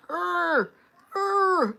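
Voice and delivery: playful attempt at an angry "err"; failed mad growl. Shown as a demonstration. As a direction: try to sound mad and fail. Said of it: "I be trying to make a".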